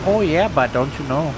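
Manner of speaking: put-on Minnesota accent. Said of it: "Minnesota accent".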